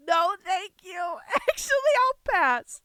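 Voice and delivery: loud, high recoil; high-pitched, grossed-out dismissal; disgusted refusal. Real, not acted. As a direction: turn it down with revulsion.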